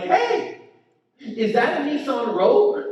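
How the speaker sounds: high-pitched hey called out; calling out. Retold or imitated. Comic to the Porsche driver in the next car, calling out.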